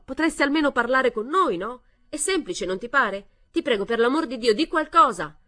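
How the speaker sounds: loud, high, exasperated pleading shout; yelled plea. A narrator's reading. Exasperated son-in-law begging mother-in-law to speak, loud pleading shout. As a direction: beg her to speak, at full volume. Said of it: "urlò".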